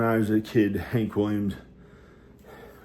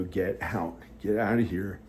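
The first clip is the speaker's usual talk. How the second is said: quiet quoted command; 5 dB quieter than usual. Retold or imitated. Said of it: "without saying it in a New York accent".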